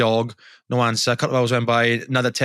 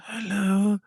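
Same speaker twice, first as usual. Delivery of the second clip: theatrical hello; 6 semitones higher, 4 dB quieter than usual. Retold or imitated. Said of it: "Like you're one of the cast of Wicked".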